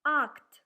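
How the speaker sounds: "Act" said loud and clear, unaspirated; teacher modelling a Russian word for students; reading aloud. Shown as a demonstration. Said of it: "let's try to read the first Russian words".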